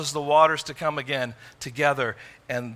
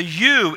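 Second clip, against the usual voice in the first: you said louder as the key word; you stressed to turn the blame; 3 semitones higher, 5 dB louder than usual. Shown as a demonstration. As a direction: land firmly on you. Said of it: "is emphatic".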